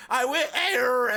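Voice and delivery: high, slow, loud mock babble; hammed-up drawn-out nonsense cry; garbled half-language kid. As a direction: imitate a kid mangling two languages. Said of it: "speaking half both".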